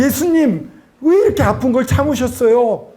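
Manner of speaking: high, heartfelt cry to Jesus; anguished plea. Retold or imitated. Believer asking Jesus why he bore such pain, anguished plea. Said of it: "마음속에서 막 올라오는 거예요".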